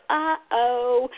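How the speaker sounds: "uh-oh" slow and sing-song; "uh-oh" lifted in pitch, the oh drawn out; emphasized vowels. Shown as a demonstration. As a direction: stretch both vowels in "uh-oh". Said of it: "Just emphasize those vowel sounds".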